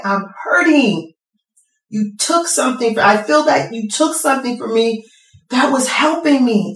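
recalling the lost loved ones, a tearful plea to the Lord; grieving plea to God. Retold or imitated. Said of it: "And I said".

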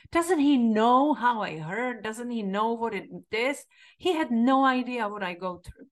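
how dare he, rising up; indignant outrage. Retold or imitated. Her indignant inner reaction.

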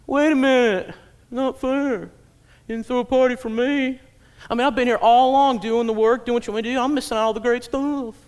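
put-on high, complaining older-brother voice; whiny older brother. Preacher voicing the sulking older brother. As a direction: whine it like a sulking son. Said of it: "this religious older brother's going".

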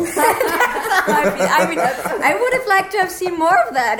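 high-pitched, laughing vent; worked-up venting. Real, not acted. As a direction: blurt it out, amused and riled up. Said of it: "how do you really feel?".

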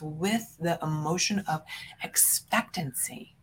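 whisper. Real, not acted. Coach softens for key word.

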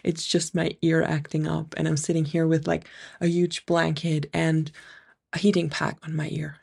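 blocked nose from an ear infection; nasal voice. Real, not acted. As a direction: speak through a stuffy nose. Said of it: "So I might sound a little bit nasal today".

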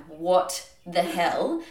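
slow, drawn-out mock outrage; retold mad disbelief. Naked strangers walk through the bedroom, retold exasperation. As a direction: act out exasperation, stretching the words. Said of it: "I was so mad".

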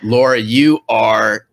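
slow and emphatic, each word weighed; emphatic praise. Real, not acted. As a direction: lean into the compliment. Host praising guest emphatically.

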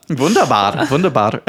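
hammed-up German accent; over-the-top mock German pronunciation; offensive German accent. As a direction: put on a cartoonish German accent. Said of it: "doing my most offensive German accent".

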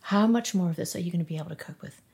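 rushed, anxious repeat of the question; fast repeated thought. Retold or imitated. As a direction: spill it out fast, spiralling.

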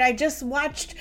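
hammed-up anxious self-talk; spiraling self-criticism. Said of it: "we start to blame or judge ourselves".

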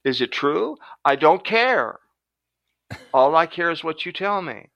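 a hint of a giddy inner voice; the brain talking. The brain answers him, a lightly voiced eager inner voice. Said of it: "And what did my brain say? It said".

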